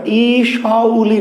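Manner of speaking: "ইসৌলি" very slow, each vowel separate; wrong split reading. Shown as a demonstration. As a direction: hold ই, then each following sound apart in "ইসৌলি". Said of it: "কিন্তু উচ্চারণের সময়".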